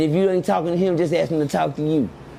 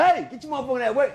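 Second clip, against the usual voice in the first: Spencer voice; 8 semitones higher than usual. Retold or imitated. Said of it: "In my Spencer voice".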